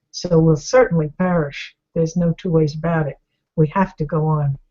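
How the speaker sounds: captain's voice. Retold or imitated. Captain answers frightened crew.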